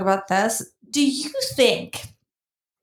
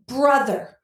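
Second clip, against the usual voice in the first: mock pleading; 2 semitones higher, slower than usual.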